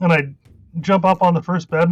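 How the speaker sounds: normal talking voice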